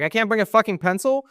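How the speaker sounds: high-pitched, indignant question; incredulous protest. Retold or imitated. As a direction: replay your disbelief, pitch jumping way up. Refused a pencil by exam staff.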